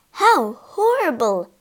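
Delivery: high, slow exclamation of horror; horrified cry. A narrator's reading. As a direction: cry out appalled, drawing it out. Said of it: "cried Missus Otis".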